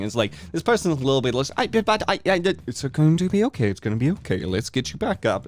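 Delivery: high, fluttering fussy father voice; fussy host father. Acted. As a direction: play the flustered, doting host dad.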